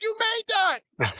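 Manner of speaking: slow, high shout of disbelief; stunned disbelief. Retold or imitated. Amazed at Mark's impossible throw, slow high shouted disbelief. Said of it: "I was like".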